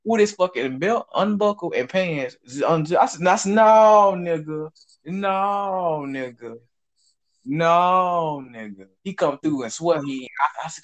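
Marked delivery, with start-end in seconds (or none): 3.5-8.9 long drawn-out "no", falling away after; emphatic retold refusal. Telling how he refused the coworker, drawn-out disbelief. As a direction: drag out each no in disbelief. Retelling his repeated refusal.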